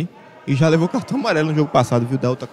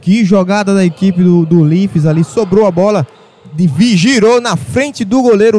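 excited goal reaction; 3 semitones higher, 4 dB louder than usual. Real, not acted.

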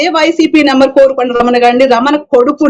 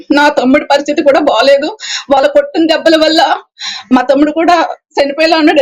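ordinary talk

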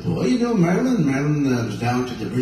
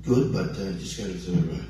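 raspy voice; 3 semitones lower, 5 dB quieter than usual. Real, not acted. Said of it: "raspy voice tonight".

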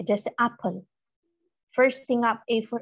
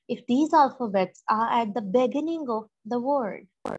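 slow reading; much slower than usual. Shown as a demonstration. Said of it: "जब ये किसी लफ्ज के शुरू में".

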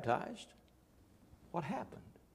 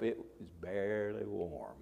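whispered aside; 7 semitones lower, 8 dB quieter, slower than usual. Real, not acted.

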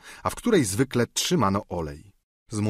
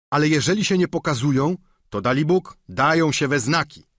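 quick, higher squire's retort; Sancho; 5 semitones higher, 3 dB louder than usual. Acted. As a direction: fire back quickly. (szybko, wyżej, giermek odcina się)

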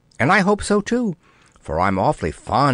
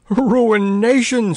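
high, slow, louder sputtered outburst; spluttering; 10 semitones higher, 3 dB louder, slower than usual. Acted. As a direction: splutter the word out in dismay. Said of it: "spluttered the king".

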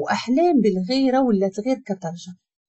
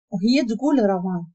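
usual speaking voice

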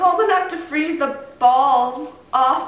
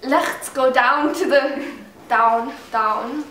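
put-on slow, uncertain German accent; halting mock German accent; attempted German accent; slower than usual. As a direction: feel out a German accent word by word. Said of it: "Is that German?".

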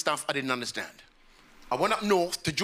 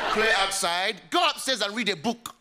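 higher, scornful parental order; strict mum; 3 semitones higher than usual. Retold or imitated. Strict mum ordering her child upstairs, mock stern. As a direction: send the kid off in a put-on mother's voice. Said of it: "my parents are very strict".

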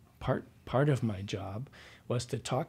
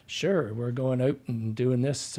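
put-on Canadian accent. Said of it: "was nicknamed Hoser Patrol".

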